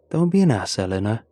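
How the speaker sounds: a light, heartless telling-off; half-hearted chiding. Acted. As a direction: scold her without meaning it. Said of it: "Charlie chides".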